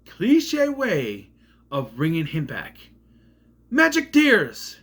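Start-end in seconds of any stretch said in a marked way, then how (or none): 3.7-4.8 high, loud, slow mocking cry; sarcastic scorn. Real, not acted. Reviewer scoffing at the film's magic tears ending, slow loud sneer. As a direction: drag it out to mock the cliche.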